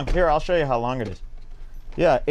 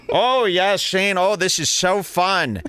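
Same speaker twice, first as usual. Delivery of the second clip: higher-pitched, put-on girlfriend enthusiasm; mock delighted girlfriend; 6 semitones higher than usual. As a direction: gush like a girlfriend faking delight. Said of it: "girlfriend, she must really enjoy going down there and going like this".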